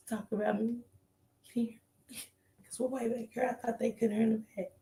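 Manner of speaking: hushed so the back row isn't heard; real whisper. Real, not acted. To the riders beside her, in a whisper.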